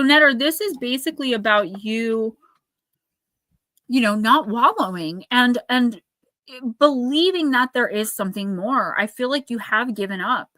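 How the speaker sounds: ordinary talk, nothing marked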